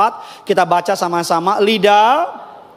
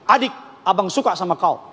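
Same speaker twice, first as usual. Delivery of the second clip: mock confession. Man courting a girl.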